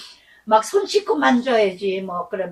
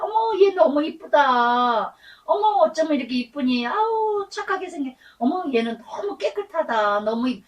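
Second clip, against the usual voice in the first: gushing passerby; 4 semitones higher than usual. Retold or imitated. Passerby cooing at the pastor's dog, lightly gushing. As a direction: coo over the dog like a charmed stranger.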